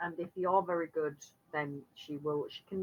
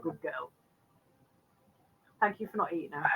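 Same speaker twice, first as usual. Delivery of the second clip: soft, whispered praise for a bird; whisper to pet; 3 semitones lower, 3 dB quieter than usual. Acted. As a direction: murmur thanks to the pet hawk. Praising the bird under its chin.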